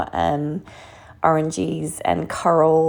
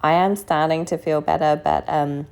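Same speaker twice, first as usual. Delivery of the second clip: hoarse, croaky from bronchitis. Real, not acted. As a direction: talk through a sore, croaky throat. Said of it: "So excuse the croaky voice".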